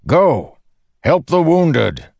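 high, urgent battlefield command; shouted order. A narrator's reading. The Windrunner orders Dalinar to help the wounded, shouting. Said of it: "he shouted".

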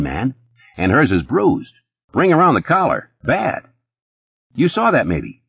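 high, fast-talking nervous hustler; Eddie's voice. A narrator's reading. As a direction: pitch it up as jittery Eddie.

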